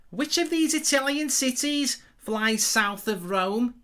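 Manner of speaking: slow Scouse quiz-host voice; Scouse accent. Acted. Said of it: "I'll say it again".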